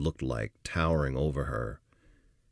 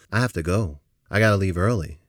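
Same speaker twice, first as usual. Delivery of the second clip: urgent plea; 5 semitones higher, 8 dB louder than usual. Retold or imitated. Urgent whisper-turned-plea to boss.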